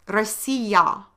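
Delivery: Россия said ra-SEE-ya with a clear final ya; native-style Россия for the class; Russian pronunciation. Shown as a demonstration. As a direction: give the Russian Россия with a stressed middle. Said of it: "ya in Russian means".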